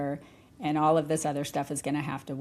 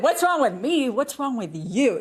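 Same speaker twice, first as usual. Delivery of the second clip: higher, louder mock accusation; mock accusing; 5 semitones higher, 4 dB louder than usual. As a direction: snap the question back like a jab. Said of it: "I have heard it said".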